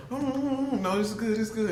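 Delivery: high, hammed-up tasting voice; TV host tasting. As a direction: overplay a polite tasting host. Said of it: "the host gonna say".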